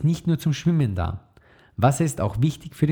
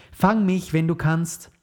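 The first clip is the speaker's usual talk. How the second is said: playful taunt; 6 semitones higher, slower than usual. Acted. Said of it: "aber Emma lachte und rief".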